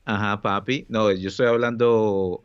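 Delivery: costeño Spanish, playful; Colombian coastal accent. Pretend. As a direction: tease in a coastal Colombian lilt. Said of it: "I'm talking like someone from la costa de Colombia".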